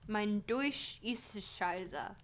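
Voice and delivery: slow, deliberate go at German; attempted German accent. Shown as a demonstration. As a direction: try a German accent, word by careful word. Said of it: "That's the best you're getting".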